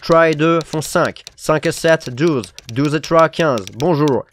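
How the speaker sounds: lightly voiced, absorbed counting; busy businessman. A narrator's reading. Businessman ignoring the prince, counting aloud. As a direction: count without looking up.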